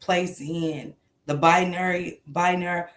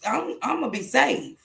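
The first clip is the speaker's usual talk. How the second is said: higher, reassuring son's voice; voicing her son; 5 semitones higher than usual. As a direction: lightly play the son promising he'll be safe. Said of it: "And he said".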